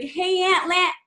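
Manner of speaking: put-on high kid voice, breaking off mid-name; imitating young niece. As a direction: mimic the niece calling out, then stop short. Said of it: "she called me and she was like".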